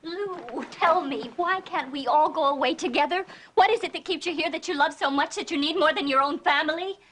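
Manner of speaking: urgent, insistent demand for answers; worked-up appeal to a loved one. Acted. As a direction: plead with him, voice rising. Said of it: "Will you stop yelling".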